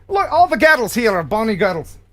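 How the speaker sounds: attempted Scottish accent with an American base. Host showing contestants Bonnie in use, mock Scottish accent. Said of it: "That was my American Scottish accent".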